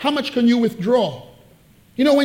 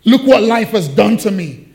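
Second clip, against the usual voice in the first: louder whiny poor-me wail with a laugh; mock self-pity; 6 dB louder than usual. Preacher teasing his congregation's self-pity, whiny. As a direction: ham up the moaning. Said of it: "Don't look at me like you haven't".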